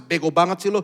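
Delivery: loud mocking parental scolding; loud retold put-down; old-time parent scolding. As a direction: imitate a parent berating a child, loudly. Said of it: "Kan orang tua zaman dulu gitu".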